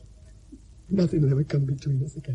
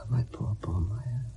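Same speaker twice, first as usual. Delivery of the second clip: slow, soft unvoiced grief; father whispering farewell to his daughter; grieving whisper; 5 semitones lower, 10 dB quieter, slower than usual. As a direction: whisper it to the departed.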